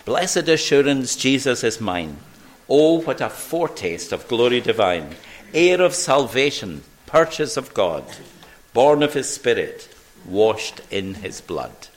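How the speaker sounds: hymn lyrics read aloud. Real, not acted. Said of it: "finish our service today by singing the song".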